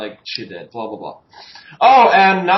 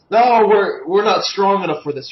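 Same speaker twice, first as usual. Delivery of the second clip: mock guards; 3 semitones higher than usual. Podcaster mimics guards backing out of a fight, mock protest. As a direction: imitate guards pleading they can't cope. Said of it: "and the guards are like".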